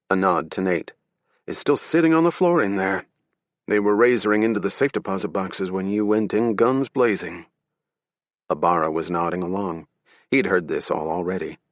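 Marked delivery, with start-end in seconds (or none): 1.5-7.5 brief the agents like a tense security director; security director recounting the robbery. Acted. Security director voiced in story.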